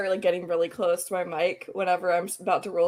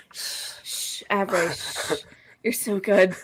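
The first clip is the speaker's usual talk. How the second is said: sweet nothings; slower than usual. Pretend. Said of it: "whisper sweet nothings".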